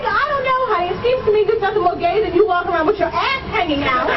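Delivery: hammed-up disbelief at the student; exasperated teacher. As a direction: squeal it out like a fed-up teacher. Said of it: "I'm like".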